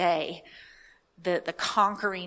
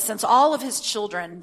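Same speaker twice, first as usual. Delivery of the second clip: louder, emphatic scripture reading; 3 semitones higher, 6 dB louder than usual. Real, not acted. Preacher reading Hebrews to listeners, scripture reading. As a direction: read it out with weight.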